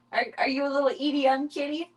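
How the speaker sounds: high, sing-song pet voice. Real, not acted. Owner teasing her kitten in baby talk.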